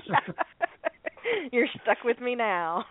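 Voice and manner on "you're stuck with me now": slow, drawn-out playful echo; playful mock echo. Repeating partner's line to laughing co-hosts, playfully drawn out. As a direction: stretch it out teasingly between laughs.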